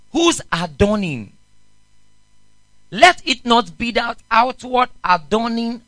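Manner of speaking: first reading. Shown as a demonstration. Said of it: "let's read it again".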